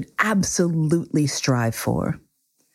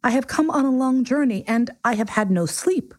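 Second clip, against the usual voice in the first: higher-pitched, embarrassed explanation; embarrassed prince; 6 semitones higher than usual. A narrator's reading. Prince explaining his yawn to the king, embarrassed. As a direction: plead your excuse as the little prince. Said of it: "thoroughly embarrassed".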